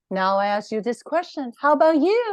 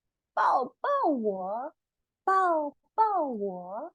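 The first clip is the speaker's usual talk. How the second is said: crying plea; 6 semitones higher, much slower than usual. Acted. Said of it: "哭着说".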